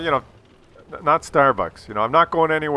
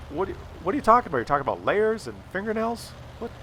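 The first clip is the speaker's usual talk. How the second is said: mock baffled; 3 semitones higher, faster than usual. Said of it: "very politely".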